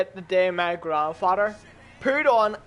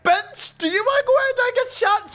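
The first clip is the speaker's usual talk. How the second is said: indignant yell; 13 semitones higher than usual. Retold or imitated. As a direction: shout back at her, outraged. Yelling back at grandmother.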